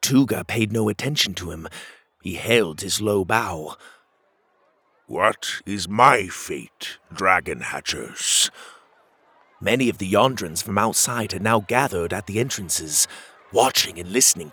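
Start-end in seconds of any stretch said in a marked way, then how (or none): 5.1-8.5 slow, humble, lower voice. Acted. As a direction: ask meekly from a bow. Humbled Tuga bows low.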